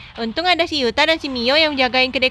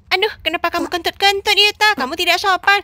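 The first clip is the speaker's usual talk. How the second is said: mildly indignant, pitched up; scolding; 4 semitones higher than usual. Acted. Mio tells off Yuta for farting, scolding. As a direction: scold with the name jumping higher.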